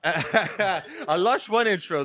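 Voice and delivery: drawn out, very slow; savoring it. Acted. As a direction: stretch each word, savoring it. Savoring the Lush One intro.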